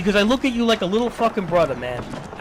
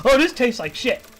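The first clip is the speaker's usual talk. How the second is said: mock consumer; 4 semitones higher than usual. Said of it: "shoveling shit in your mouth".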